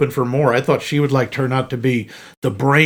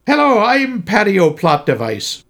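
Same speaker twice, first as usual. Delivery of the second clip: put-on Irish accent; 6 semitones higher than usual. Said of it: "the accent is a smidge cartoonist".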